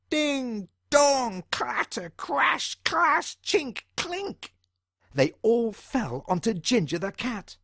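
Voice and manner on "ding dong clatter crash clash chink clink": high, punched-out crashes climbing in pitch; excited storyteller's cascade of noises; clattering sound words. A narrator's reading. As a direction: voice each falling dish separately. Crockery crashing down in sequence.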